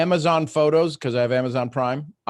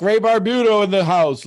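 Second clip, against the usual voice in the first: hype announcement; 7 semitones higher, 6 dB louder than usual. Real, not acted. Host calling on next caller.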